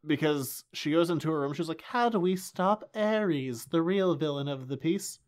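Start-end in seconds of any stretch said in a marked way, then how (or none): 1.8-5.2 slow, weak attempt at an Israeli accent; lightly put-on Israeli accent, drawn out slowly; a hint of an Israeli accent. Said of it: "I didn't say that Israeli enough".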